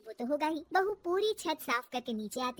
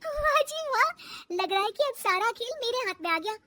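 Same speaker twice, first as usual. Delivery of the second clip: high, delighted exclamation; pleased, high-pitched gloating; gleeful triumph; 7 semitones higher than usual. Acted. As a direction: crow over your new power. Daughter-in-law gleeful at new power.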